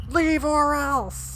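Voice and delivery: high, very slow threatening yell; threat. Acted. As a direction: menace them to leave. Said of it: "It's like".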